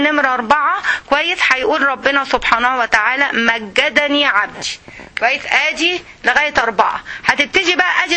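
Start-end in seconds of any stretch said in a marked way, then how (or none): 3.3-4.8 slow solemn recital. Shown as a demonstration. Voicing God's reply in hadith.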